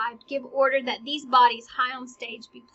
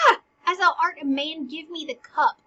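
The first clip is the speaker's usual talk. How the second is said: raised, forceful demand for the cup; irritated Hamlet; 4 semitones higher, 7 dB louder than usual. Acted. Hamlet to Horatio, stopping him drinking, irritated shout. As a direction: grab the cup back, loud and urgent. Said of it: "Hamlet gets irritated".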